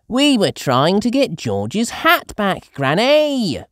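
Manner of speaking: high, loud explaining; Peppa's voice. A narrator's reading. Peppa explaining to Granny they wanted the hat. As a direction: plead your case. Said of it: "says Peppa".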